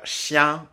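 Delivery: chien, nasale finale nette; mot d'exemple. Shown as a demonstration. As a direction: dites chien détaché. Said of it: "comme je le disais". (chien bien nasal)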